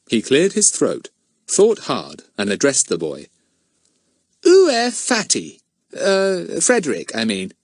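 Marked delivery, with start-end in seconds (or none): 4.4-7.5 careful schoolboy French. A narrator's reading. Pip tries his French.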